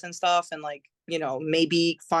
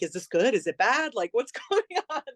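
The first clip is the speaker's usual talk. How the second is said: mock-nervous questions climbing higher into a laugh; retold nervousness; 5 semitones higher than usual. Young singer in the booth watching the producers, mildly nervous. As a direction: replay the jitters lightly, pitch climbing. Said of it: "And I'm nervous".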